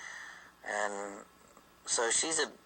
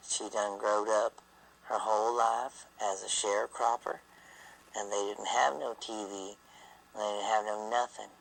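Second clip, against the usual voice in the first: put-on childhood Southern accent. Shown as a demonstration. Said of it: "this is how I used to talk when I was a little kid".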